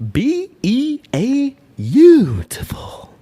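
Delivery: slow, high, whispered spelling; Jim Carrey impression. Shown as a demonstration. Podcaster tries his awful Carrey impression, slow and whispered. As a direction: stretch each letter in a breathy rasp. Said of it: "That's my awful Jim Carrey impression".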